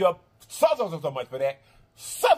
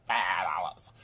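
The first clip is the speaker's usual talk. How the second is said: low whispered aside; 11 semitones lower, 7 dB quieter, slower than usual. Real, not acted. Vlogger whispering the sushi deal to her viewers. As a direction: whisper the price like a secret.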